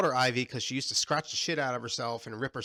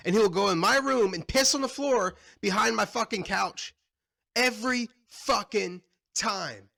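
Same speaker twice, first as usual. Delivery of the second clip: higher, louder, exasperated rant; annoyed rant; 8 semitones higher, 5 dB louder than usual. Real, not acted. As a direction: vent about the cat. Angry cat rant.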